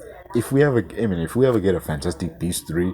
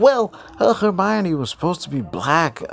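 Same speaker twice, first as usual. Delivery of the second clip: mocking Rowling; 7 semitones higher than usual. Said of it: "she was like".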